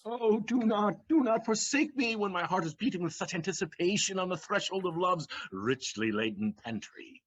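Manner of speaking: florid pleading. Acted. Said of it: "stop you from poetizing".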